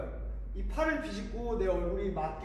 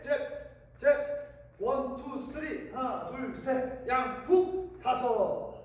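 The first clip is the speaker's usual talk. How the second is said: rhythmic workout calls; gym coach; 3 semitones higher, slower than usual. Shown as a demonstration. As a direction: call the combo like a coach. Boxing workout count calls.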